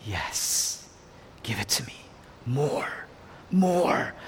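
low, soft voice with long pauses; quiet resolve. Acted. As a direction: accept it quietly, word by word. Jesus willingly takes the suffering.

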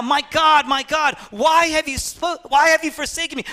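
Jesus's cry, acted high and strong; impassioned preacher's rendering of a desperate cry. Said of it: "And Jesus cries out".

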